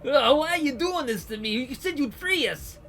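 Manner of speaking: high, loud, desperate pleas; condemned prisoners begging the gangsters; panicked pleading prisoners. Acted. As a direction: beg and wail for mercy.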